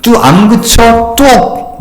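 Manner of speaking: mock a strict parent hushing a crying child; a touch of an old-school parent snapping at tears; scolding parent. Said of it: "옛날에 많이 듣던 말이잖아요".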